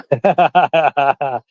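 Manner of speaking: staged sinister cackle; villain laugh. Pretend. Laugh in scary voice act.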